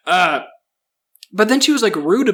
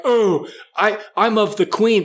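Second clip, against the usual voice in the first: lightly put-on British accent, pitched up; tidy mock British accent, higher voice; 5 semitones higher than usual. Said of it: "they don't even say it like that".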